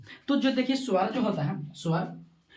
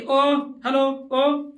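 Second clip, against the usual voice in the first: louder, higher example hail; calling out; 4 semitones higher, 5 dB louder, much slower than usual. Shown as a demonstration. Teacher demonstrating how one summons another, raised calling voice. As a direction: call after someone, drawn out. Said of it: "दूसरे को बुलाने या पुकारने".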